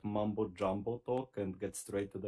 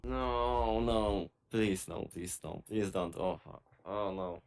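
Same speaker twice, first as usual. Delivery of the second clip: anguished denial. Real, not acted. Reacting in horror to clip.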